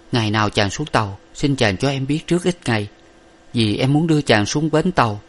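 mild grief, gentle farewell; lightly voiced lover sending him away; sorrowful young woman. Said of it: "chau mày lụy đổ".

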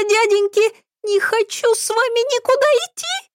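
put-on very high, slow, frightened little girl; squeaky child voice. Old Petrovna in her dementia, terrified childlike squeak. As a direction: squeal it like a scared small child. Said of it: "детским писклявым голосом".

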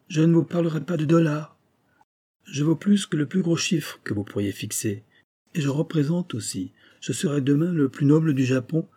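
lightly acted self-important suitor; eager suitor doctor. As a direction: make a proud, insistent pitch. Kasuga pleads his case.

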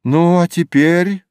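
insistent lifted question. A narrator's reading. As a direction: ask it brightly up high, ending upward. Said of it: "спрашивает Юнгфрау".

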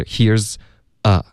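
HERE'S A with the th missing; dropped th mistake. Shown as a demonstration. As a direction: demonstrate "here's a", tongue off the teeth. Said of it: "你就发成here's a".

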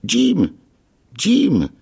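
high, loud delighted repetition of a name. A narrator's reading. Castaway delighted by the boy's name, high and loud. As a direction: savour the name with joy. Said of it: "apparemment ravi".

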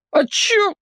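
put-on high boyish squeak; scared boy. A narrator's reading. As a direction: play dumb, high. Captive boy evasive.

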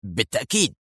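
quick reply. A narrator's reading. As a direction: answer at once, voice kept down. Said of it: "ولكنه أجاب في سرعة". (مجيبًا في سرعة)

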